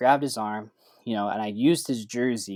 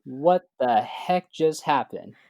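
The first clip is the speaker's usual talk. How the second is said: freaking out; 3 semitones higher, 5 dB louder, slower than usual. Retold or imitated. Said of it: "I'm freaking out".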